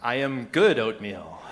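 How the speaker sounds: slow, careful beginner's sentence; childlike broken-language answer; toddler-level learner. Retold or imitated. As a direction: say it haltingly like a proud toddler. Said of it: "a German-speaking toddler".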